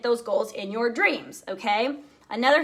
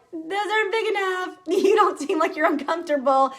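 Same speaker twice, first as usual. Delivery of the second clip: higher, lightly put-on mentor voice with a laugh; imitating her mentor; 6 semitones higher than usual. Leader quoting her mentor Whitney, lightly voiced with a laugh. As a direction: play Whitney pushing her, teasing and firm. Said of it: "And she was like".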